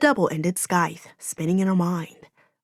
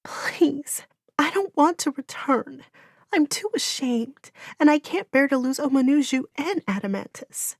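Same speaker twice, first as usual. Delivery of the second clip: higher, broken pleading croak; pathetic croak; 7 semitones higher than usual. A narrator's reading. Gabriella begging Orin not to send her back, croaking. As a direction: beg through a ruined, tearful throat. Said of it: "Her voice was a pathetic croak".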